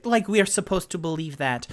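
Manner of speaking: a hint of a doubting woman; suspicious halfling woman. Halfling woman doubting the party's story, mildly high. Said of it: "the halfling woman goes".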